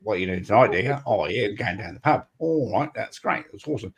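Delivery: imitated Aussie pub chat; Australian accent. Mimicking Sydney folk off to the pub, Australian accent. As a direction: mimic casual Australians making plans. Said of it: "they all talk like that".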